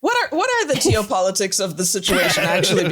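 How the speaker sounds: asking through laughter; laughing. Real, not acted. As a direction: laugh your way through the question. Joking question, cracking up with others.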